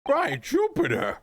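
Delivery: high slow hammy outburst; theatrical exclamation. Acted. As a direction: exclaim it like a stage lawyer.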